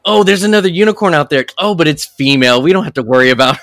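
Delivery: high, fast, catty goblin sneer; hammed-up snooty villain voice, rushed; mock goblin leader. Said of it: "She was like".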